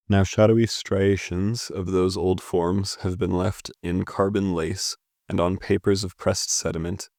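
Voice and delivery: measured, evenly paced poetry reading; poem reading. Acted. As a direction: read the verse aloud with care, phrase by phrase. Reads the second stanza.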